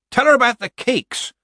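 high, loud dark insistence. A narrator's reading. Gamma grumbling to the committee about the cakes, darkly. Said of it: "said Gamma Beavis darkly".

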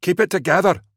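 fierce sergeant's rebuke; snarled order. A narrator's reading. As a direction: snarl at the men to hold firm. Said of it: "Cluggan snarled".

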